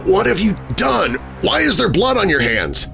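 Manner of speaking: high, alarmed questioning. A narrator's reading. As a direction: demand answers in a high, horrified voice. Husband alarmed at blood on hands.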